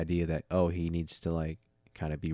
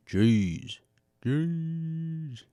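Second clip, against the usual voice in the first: yawning; 10 semitones higher than usual. Real, not acted. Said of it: "Sorry, I had to yawn again".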